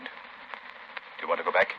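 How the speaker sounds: slow, soft whisper; hushed whisper. Acted. Lamont whispering to Margot on the dark jungle trail. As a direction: keep it low so no one hears. Sneaking through jungle at night.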